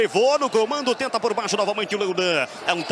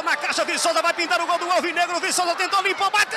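narração empolgada; 5 semitones higher than usual. Real, not acted. Replay do mesmo lance.

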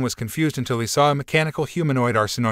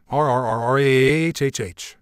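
feral snarling; slower than usual. Acted. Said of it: "Kaido shouts as he transforms".

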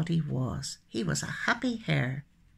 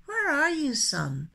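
a higher, calling-out question; shouting; 6 semitones higher than usual. A narrator's reading. Hare calls to the cloudy sky each day, mild shout. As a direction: call up to the sky. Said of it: "looked up to the sky and shouted".

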